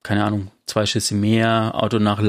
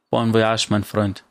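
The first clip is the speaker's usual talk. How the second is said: mocking farewell. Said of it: "rief spöttisch".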